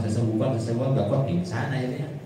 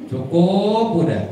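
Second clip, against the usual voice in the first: firm stop; 7 semitones higher, 7 dB louder, slower than usual. Retold or imitated. Preacher voicing himself stopping tears.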